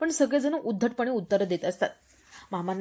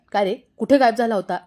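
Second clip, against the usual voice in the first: scolding; 5 dB louder than usual. Acted. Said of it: "ओरडतात".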